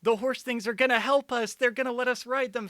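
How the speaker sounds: high, loud, fast mock excitement; high giddy sarcastic gushing. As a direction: gush like a naive hero. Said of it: "they're like".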